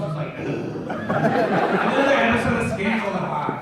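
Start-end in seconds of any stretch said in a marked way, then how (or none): 0.4-0.5 put-on put-upon shop-girl "ugh"; bored teen groan. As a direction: groan like a teenager asked to work. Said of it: "fifteen-year-old girl working at Foot Locker".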